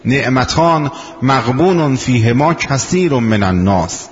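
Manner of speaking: slow, deliberate Arabic recitation of the hadith with weight on کثیر. Shown as a demonstration. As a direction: recite it slowly, dwelling on کثیر. (قرائت آرام و شمرده حدیث)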